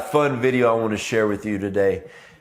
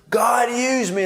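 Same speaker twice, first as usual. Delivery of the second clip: high, fervent "God, use me"; a pitched-up pleading prayer; eager mock prayer; 11 semitones higher, 3 dB louder, slower than usual. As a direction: cry it out, much higher.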